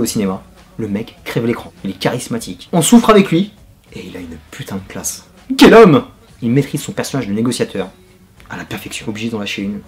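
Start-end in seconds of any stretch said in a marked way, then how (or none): 5.6-6.0 high, loud "Quel homme!"; admiring exclamation. Real, not acted. Reviewer praising the actor to viewers, loud admiring cry. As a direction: cry it out in awe.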